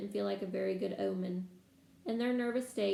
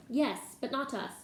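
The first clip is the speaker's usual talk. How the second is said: exasperated; 4 semitones higher than usual. Acted. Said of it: "in exasperation".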